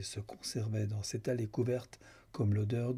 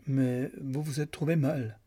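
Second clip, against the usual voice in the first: higher, lightly amused reassurance; 4 semitones higher, 3 dB louder than usual. Acted. Lucan to Julia after her faint, lightly amused. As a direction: say it as if making light of it. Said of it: "dit Lucan en riant".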